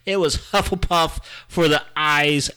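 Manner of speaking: high, loud and worked up; excited. Real, not acted. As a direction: rant it with rising excitement. Excited rant about Hufflepuffs.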